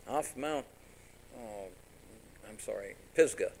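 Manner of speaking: ordinary delivery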